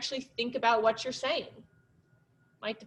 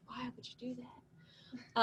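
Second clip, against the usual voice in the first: slow, hushed gravel-free Batman growl, much softer; 16 dB quieter, slower than usual. Retold or imitated. Teacher imitating Batman from the Snyder Cut, slow hushed voice. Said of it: "the Batman voice is just like".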